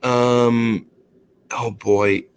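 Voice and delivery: lightly voiced woman leaving an awkward message; hesitant mock female voice, questions lifting up; imitated female caller. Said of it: "I hear this female's voice".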